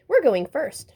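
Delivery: high, loud boastful shout. A narrator's reading. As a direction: shove ahead, calling it out loud. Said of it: "shouted the twins".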